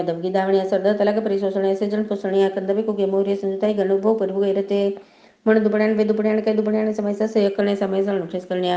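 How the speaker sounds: rote chant of sacred vows; prayer recitation. Acted. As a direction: recite the vows in an unbroken, even stream.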